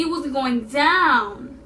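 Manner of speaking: drawn out, each word weighted; "down" slowed and dropped hard; slow emphatic. Shown as a demonstration. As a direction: take your time and land "down". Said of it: "oh no, baby".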